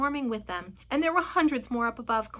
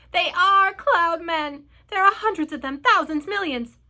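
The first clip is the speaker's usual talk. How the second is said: loud, high cries of panic; panicked exclaiming, voice raised; alarmed outcry; 7 semitones higher, 9 dB louder than usual. A narrator's reading. Creatures panic at seeing cloud men.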